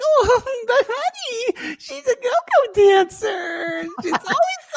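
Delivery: high, slow sugary mom voice; sweetly passive-aggressive mother. Retold or imitated. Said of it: "passive aggressive".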